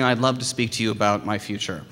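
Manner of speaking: softly spoken, courteous request; gentle, well-mannered approach; polite request. Shown as a demonstration. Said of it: "politely saying".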